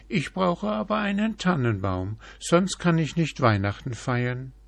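high, quick little deer voice; a timid deer pleading for its tree; very high, fast deer. A narrator's reading.

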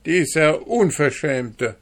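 high, loud outraged tirade; angry railing. A narrator's reading. Hanne denouncing the dwarf to the market women, loud outrage. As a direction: rail at him for the whole market to hear.

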